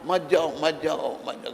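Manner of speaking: retold crying out. Hell dwellers begging King Janak not to leave, retold crying out. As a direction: imitate a crowd calling out to stop him. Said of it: "सब चिल्लाए".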